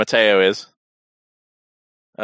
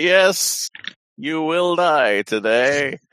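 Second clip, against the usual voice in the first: gloomy psychologist; 4 semitones higher, much slower than usual. Retold or imitated. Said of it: "it's like".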